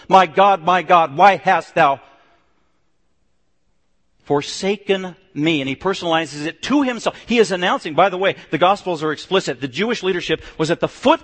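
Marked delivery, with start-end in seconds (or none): 0.1-5.6 Jesus loudly declaring from the cross to his own people; loud declaration. Acted. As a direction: call it out loud to the crowd, slow at the end. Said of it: "declaring that to his own people".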